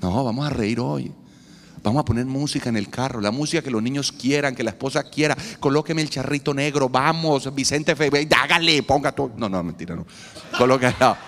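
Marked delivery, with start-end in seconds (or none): 5.6-9.3 playful mock request for ranchera music; lightly voiced father asking for a ranchera singer; joking request. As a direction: hype it up like a fan in the car. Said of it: "yo soy bromista".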